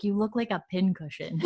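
light laugh creeping into the words; quietly amused, imitating her chuckling; retold chuckle. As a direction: say it through a soft chuckle. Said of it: "she's, like, chuckling".

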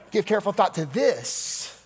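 playfully shifted stress, "this" lifted at the end; different emphasis. Shown as a demonstration. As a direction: swing the emphasis onto "this". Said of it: "put the emphasis on a different syllable".

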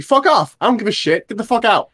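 fed-up cashier blowing off steam; exasperated outburst. Real, not acted. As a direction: let the frustration burst out. Venting at rude customers.

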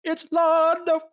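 high, loud shocked cry; shocked exclamation. Retold or imitated. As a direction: blurt it out in disbelief. Sheridan shocked at Londo on screen.

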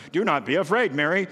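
a touch of stern scolding; flat, stern warning to Mary; mild stern rebuke; stern reading. Retold or imitated. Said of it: "She's like being stern".

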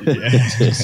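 pained laugh after surgery; laughing through pain. Real, not acted. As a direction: laugh that hurts. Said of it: "It hurts to laugh over here".

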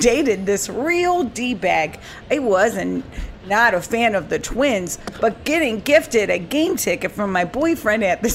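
put-on a light Minnesota accent, read with a laugh; reading a listener's story in a mild Minnesota accent. Host reads a listener's ballgame story in a mild Minnesota accent. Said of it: "attempt to do a Minnesota accent".

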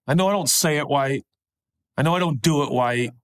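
lightly imitated little boy, "right" as "wight"; little boy accent. Preacher applying his son's words to life, lightly voiced little boy accent. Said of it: "in his little boy accent".

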